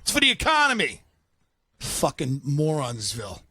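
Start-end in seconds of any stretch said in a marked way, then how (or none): 0.0-1.0 mock official excuse.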